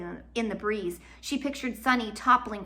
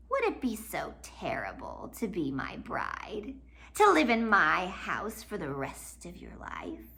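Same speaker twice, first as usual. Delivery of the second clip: faked kindness; 3 dB louder than usual. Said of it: "his voice faking ... kindness".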